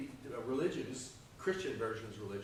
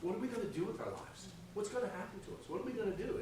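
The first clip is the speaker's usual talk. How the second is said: worried lump; 7 semitones higher, faster than usual. Acted. Porcelain lump voiced in parable.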